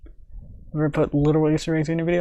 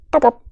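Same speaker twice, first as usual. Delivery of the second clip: high squeaky pop pop, louder; squeaky pop sounds; 10 semitones higher, 4 dB louder than usual. Shown as a demonstration. Explaining cartoon impacts, imitating a high squeaky pop. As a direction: squeak it out like a toy. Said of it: "add a little squeaky sound effect".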